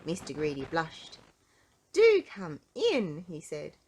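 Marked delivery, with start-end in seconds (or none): 1.9-3.3 hearty invitation. Acted. Mister Greedy invites warmly.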